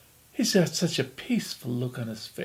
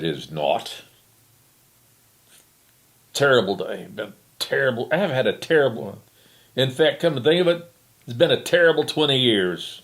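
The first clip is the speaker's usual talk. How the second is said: put-on grumbling old woman; 4 dB louder than usual.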